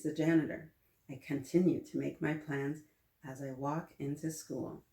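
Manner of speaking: lively storybook read-aloud; animated picture-book narration; reading to children. A narrator's reading. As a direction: read it to a class of kids.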